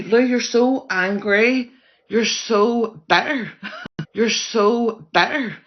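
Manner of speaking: sneering, stretched taunt breaking into giggles; slow mocking taunt. Real, not acted. Vlogger taunting Lou on a live, slow laughing mockery. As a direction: draw the words out slowly, laughing as you mock.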